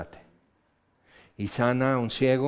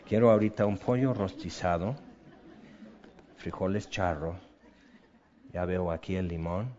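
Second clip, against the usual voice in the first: much lower and softer, savoring; dreamy craving; 8 semitones lower, 9 dB quieter than usual. Retold or imitated. Preacher imagining his afternoon lunch craving, dreamy and hushed. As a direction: mouth watering over imagined food.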